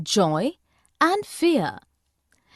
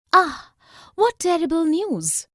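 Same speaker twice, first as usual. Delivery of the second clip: sad exclamation; 4 semitones higher, 3 dB louder than usual. Shown as a demonstration. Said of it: "an exclamation of sadness".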